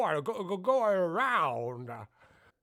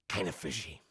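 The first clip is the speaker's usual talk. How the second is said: much lower, softer grumbled aside; deep grumble; 11 dB quieter than usual. Acted. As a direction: drop it to a deep mutter. Very low aside.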